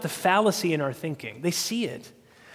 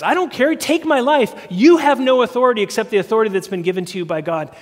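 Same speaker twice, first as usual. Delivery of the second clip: defiant Jesus; 3 semitones higher, 5 dB louder than usual. Retold or imitated. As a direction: fling it back fearlessly. Jesus defying Pilate, retold.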